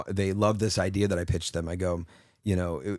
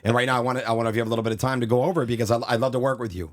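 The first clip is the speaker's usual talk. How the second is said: Vince Vaughn impression; 3 semitones higher, faster than usual. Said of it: "I just went right into Vince Vaughn".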